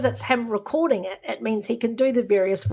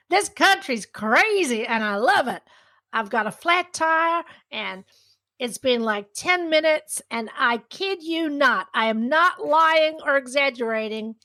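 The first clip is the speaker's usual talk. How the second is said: put-on higher, drawn-out American accent; 4 semitones higher than usual. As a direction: riff like an amazed American guy. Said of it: "The accent's gone".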